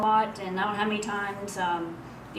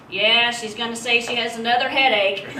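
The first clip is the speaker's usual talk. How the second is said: laughing quote; 4 semitones higher, 9 dB louder than usual. Retold or imitated. Papa Joe's joke retold.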